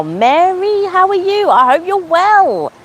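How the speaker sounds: chirpy high hello, slowing at the end; high-pitched greeting. Real, not acted. Greeting viewer, much higher.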